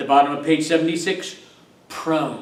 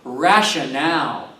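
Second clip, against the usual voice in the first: "rationale" with the accent on the final "ale"; stress on last syllable; 2 semitones lower than usual. Shown as a demonstration. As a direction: land "rationale" on its last syllable, rhyming with pal. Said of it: "with the accent on the last syllable".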